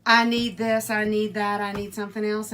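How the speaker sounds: mock needy list, loud at the start; demanding prayer. Imitating people who pray for things, mildly demanding. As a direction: rattle off wants, lightly acted.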